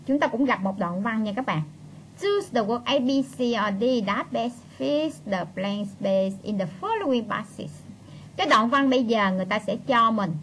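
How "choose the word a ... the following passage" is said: slow, measured English read-out; reading instructions aloud. Real, not acted. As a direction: read the exam rubric out slowly. Reads exam instruction aloud.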